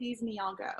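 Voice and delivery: mock-timid little plea; tiny timid voice. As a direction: offer it meekly, half hoping not to be noticed. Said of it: "this really tiny".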